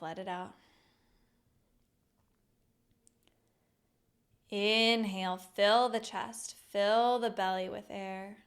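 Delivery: measured meditation guide with long pauses; guided meditation. Acted. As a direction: lead them gently through each breath, drawing out the words. Leads a breathing meditation.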